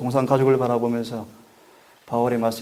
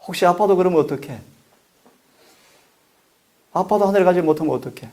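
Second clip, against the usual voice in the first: child's worried question, voiced higher; retold tearful plea; 6 semitones higher than usual. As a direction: retell a child's anxious plea in a raised pitch. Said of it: "막 울었어요". (울며 묻는 아이의 말을 높은 음으로 옮기듯)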